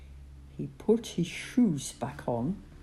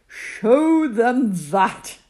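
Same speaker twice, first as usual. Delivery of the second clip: laughing; 6 semitones higher, 9 dB louder, slower than usual. Acted. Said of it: "God laughed".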